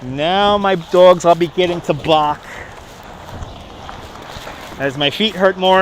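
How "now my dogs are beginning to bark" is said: put-on Brooklyn accent. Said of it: "my Brooklyn accent will get more and more thick".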